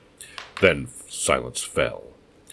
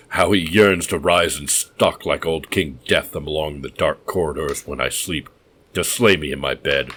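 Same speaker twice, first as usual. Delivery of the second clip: gloating madman; 4 dB louder than usual. Acted. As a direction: savour his fear of the dead.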